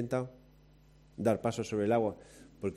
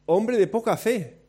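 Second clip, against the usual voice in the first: stern rebuke; 8 semitones higher, 3 dB louder than usual. Retold or imitated. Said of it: "y le dijo".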